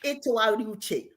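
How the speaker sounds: etogari uche, each syllable clear in Igbo; Igbo phrase said slowly. Shown as a demonstration. Teacher models the Igbo word for Simone, clear and slow. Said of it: "Simone, can you say that?".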